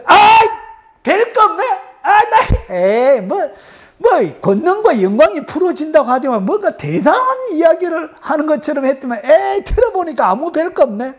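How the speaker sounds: high-pitched scoffing reaction; dismissive listener. Acted. Congregation hearing the promise and finding nothing special, dismissive scoff. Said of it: "여러분 딱 들으면서".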